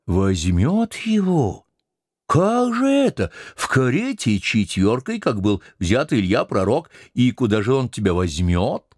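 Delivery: high, commanding mate voice; bossy sailor. Acted. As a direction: lord it over the old cook. Stubb mocks the cook.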